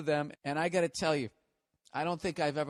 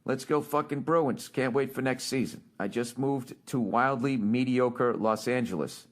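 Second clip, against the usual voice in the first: reading a letter aloud; 5 dB louder than usual. Shown as a demonstration. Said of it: "I'm gonna read this".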